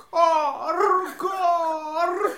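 high cawing; raven caw. Acted. Raven caws. (карканье ворона)

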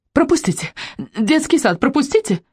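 high calling out to the crowd; teacher shouting. Acted. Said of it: "кричала воспитательница".

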